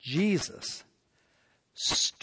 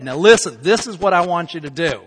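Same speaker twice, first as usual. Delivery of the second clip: firm and louder, laying down the law; stern, finger-pointing command; 5 dB louder than usual. Pretend. Jesus sternly commands the healed leper, loud and firm. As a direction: order him like you mean it. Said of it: "if I was Jesus, I would have pointed my finger".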